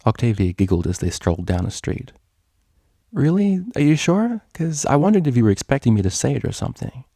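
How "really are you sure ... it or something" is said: much higher, bright disbelief; giddy and hopeful; eager surprise. Acted. Vinyl asking Octavia eagerly, much higher.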